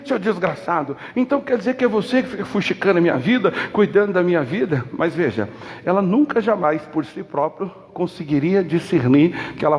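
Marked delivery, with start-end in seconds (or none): 0.0-4.8 indignant outburst. Retold or imitated. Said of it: "E aí ela ficou indignada".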